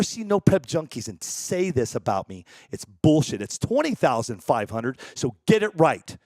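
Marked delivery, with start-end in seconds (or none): 3.4-6.2 deadpan fake correction of the price; mock boast. Streamer teasing critics with a fake sponsor price, mock boast. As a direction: pretend to set the record straight, tongue in cheek.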